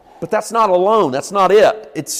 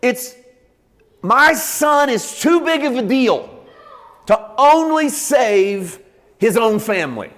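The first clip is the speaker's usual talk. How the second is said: higher, slowed voice of God proclaiming; God's voice; 4 semitones higher than usual. Pretend. Preacher voicing God to the congregation, lightly raised and slowed. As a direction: speak as a proud father announcing his son. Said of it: "this is what he sounds like".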